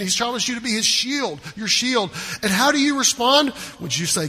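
usual speaking voice

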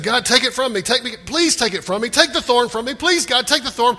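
loud, high begging to God; urgent pleading prayer. Acted. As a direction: plead hard, acting out a desperate prayer. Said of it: "Paul just prayed".

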